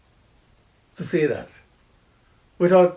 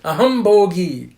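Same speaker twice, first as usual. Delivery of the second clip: proud, loud bragging; mock arrogant braggart; arrogant boast; 6 dB louder than usual. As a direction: crow like a man who thinks he is God. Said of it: "The arrogant person".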